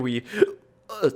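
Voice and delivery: speaking through a hiccup; words broken by hiccups. Real, not acted. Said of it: "the hiccups".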